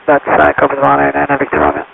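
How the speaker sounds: tinny radio transmission; crackly cockpit radio voice; pilot over the radio. Real, not acted. Pilot reads back over radio.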